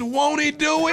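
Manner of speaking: shouting. Acted. Catchphrase shouted.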